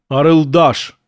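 hollow voice from beyond the grave; sepulchral voice. Acted. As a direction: intone it like a ghost. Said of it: "загробным голосом произнёс Арсений".

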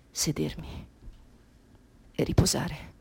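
whisper. Acted. Exhausted whisper.

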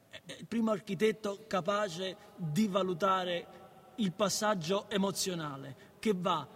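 slow, stumbling read of a textbook; careful slow reading; halting reading aloud. Acted. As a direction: read it word by word like a struggling student.

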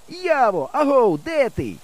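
high, slow hallooing; full-voice call. A narrator's reading. Boy searches the cornfield for his friend, full-voice call. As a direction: halloo across a distance. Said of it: "кричу я на повну губу".

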